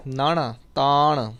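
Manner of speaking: ਤਾਣ said slowly with the retroflex ਣ; ਤਾਣ ਸਾਫ਼ ਉਚਾਰਨ; correct pronunciation. Shown as a demonstration. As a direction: end ਤਾਣ on a clear ਣ, not ਨ. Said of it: "ਤਾਨ ਨੰਨਾ ਨਹੀਂ ਕਹਿਣਾ".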